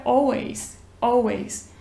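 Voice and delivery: American always with an open o sound; American accent. Shown as a demonstration. Teacher demonstrating American always to students. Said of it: "No American é always".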